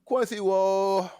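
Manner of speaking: high, loud, drawn-out whoa; surprised shout. Real, not acted. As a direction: react loudly, stretching the whoa. Surprised shout at cohost's outburst.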